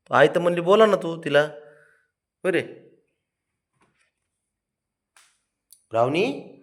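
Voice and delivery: put-on high, loud coaxing baby talk to a sulking pet.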